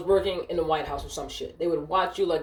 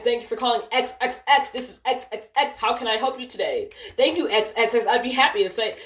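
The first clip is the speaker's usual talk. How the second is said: higher-pitched mock customer-service voice; sarcastic script reading; 5 semitones higher than usual. Agent mocking supervisor by reading the script literally, sarcastic. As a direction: recite the placeholders literally to make a point.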